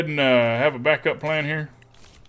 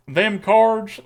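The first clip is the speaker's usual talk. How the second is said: twangy accent; 4 semitones higher than usual. Shown as a demonstration. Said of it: "talking in a voice like this".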